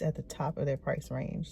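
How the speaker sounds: hushed repeat, kept low; whispering. Real, not acted. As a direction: say it again under your breath. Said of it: "I have to whisper".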